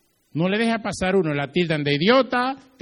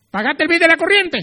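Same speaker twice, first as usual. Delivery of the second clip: high, loud demanding question; brusque, loud complaint; gruff husband; 10 semitones higher, 9 dB louder than usual. Acted. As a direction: bark it like an indifferent husband. Husband ignores dressed-up wife.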